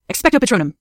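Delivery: high, commanding incantation; spell-casting professor. Acted. Professor summoning her Patronus, commanding.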